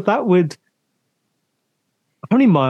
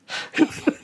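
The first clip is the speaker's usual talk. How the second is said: nervous laugh; 4 dB quieter than usual. Real, not acted. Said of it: "I just got this, like, nervous laugh".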